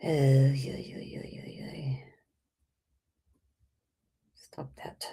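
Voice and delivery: unvoiced muttered whispers. Real, not acted. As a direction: whisper aside, off-mic. Muttering while fiddling with settings.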